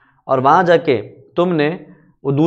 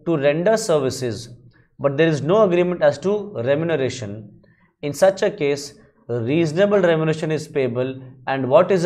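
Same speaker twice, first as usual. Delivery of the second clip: reading the statute slowly and deliberately; measured, formal recitation of the act; slow legal text reading; much slower than usual. Shown as a demonstration. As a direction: dictate each clause like a law book. Reads out the law text.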